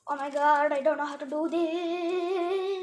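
singsong wail, slowing to a long held end; despairing whine. Real, not acted. Crafter stuck on the steps, wailing in singsong. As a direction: whine it out, dragging the last word.

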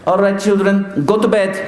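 high, commanding father figure; mock-stern bedtime order; Christopher Plummer. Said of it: "like Christopher Plummer in The Sound".

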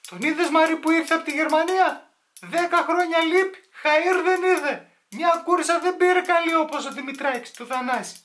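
very high, put-on auntie voice; gossiping aunt. One aunt gossips to another about an emigrant, gossiping aunt. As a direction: squeal it like a scandalised village aunt. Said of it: "Τι θα πούνε οι θείες".

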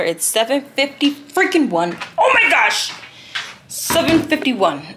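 rushed, laughing shout about being late; panicked realization. Real, not acted. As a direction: blurt it out as you see the time.

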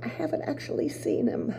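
whispered admission, almost ashamed; whispered confession. Acted. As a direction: breathe the confession out. Psyche confessing to sisters.

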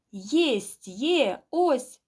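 loud, rising exclamation of triumph; triumphant catch. A narrator's reading. Man seizing the goose by the neck, triumphant cry. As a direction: cry out as you finally grab it.

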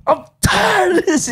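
high, drawn-out imitation; high slow mocking quote. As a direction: whine it out slowly, high. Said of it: "He's like".

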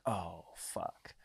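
low, hushed curse as the penny drops; sinking realization. Retold or imitated. Customer finding his wallet short, quietly dismayed. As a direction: drop it right down, almost to yourself.

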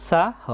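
"সাহ" opening on a clear hissed s; dental S demonstration. Shown as a demonstration. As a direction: say "সাহ" as saa-ho, s not sh. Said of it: "দন্ত সায়ের উচ্চারণটা ছয়ের মতো".

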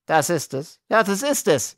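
high, plaintive wail; whimpering little man; whining lament. A narrator's reading. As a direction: moan it miserably, pitched high. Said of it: "jammerte der Kleine".

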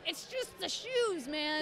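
high, slow mock exasperation; exasperated. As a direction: stretch it out in retold frustration. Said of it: "It made me so mad".

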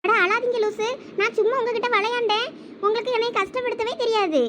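high-pitched, affectionate coaxing; coaxing reassurance. Acted. Wife telling husband she was only playing, coaxing reassurance.

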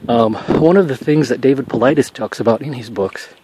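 winded from a fast walk; out of breath. Real, not acted. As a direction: talk between breaths while walking. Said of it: "I'm out of, out of breath".

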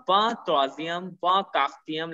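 VANTHROZIUM slowly, first syllable a bare "va"; silent G and T. Shown as a demonstration. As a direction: say Vanthrozium, Vancastium with no g in "van". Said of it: "This G and T don't pronounce".

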